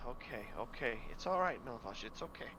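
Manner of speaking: soft, gentle soothing; calm a crying child down; reassuring. Acted. Priest comforts crying boy.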